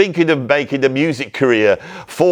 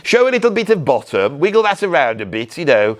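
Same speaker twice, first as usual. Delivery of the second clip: high, breezy rich father; posh dad; 5 semitones higher than usual. Acted. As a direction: brush it off like a pleased old toff. Posh dad reassures daughter.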